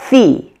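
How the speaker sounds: "the" said alone as a stressed syllable; strong first syllable. Shown as a demonstration. Teacher recapping the first syllable so far, strong stress. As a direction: give "the" full weight as the start of theater. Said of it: "that strong first syllable".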